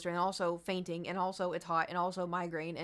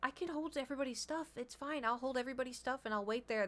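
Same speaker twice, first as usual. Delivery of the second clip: higher and softer, eager to get out of it; timid offer; 5 semitones higher, 4 dB quieter than usual. Retold or imitated. Dreading the coaster, she meekly offers to hold their stuff. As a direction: sound meek and hopeful.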